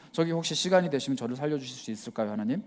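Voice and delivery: prim, casual "저기 혹시" tone; overly polite request. Retold or imitated. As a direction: ask God for rescue like a polite favour. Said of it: "누가 젠틀하게 외칩니까".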